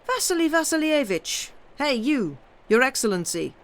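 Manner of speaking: calling out high and eager; an eager young voice cries out; excited call. A narrator's reading. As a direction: hail him across the room, excitedly. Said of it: "cried out loudly and excitedly".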